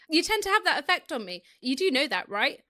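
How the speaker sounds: nasally British back-of-throat voice; Lando. Acted. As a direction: own British accent, lightly pushed into the nose. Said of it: "nasally, like, back of the throat".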